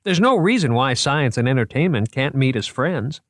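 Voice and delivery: proud museum man showing off his finds; eager curator voice. Acted. Moriarty's character voice.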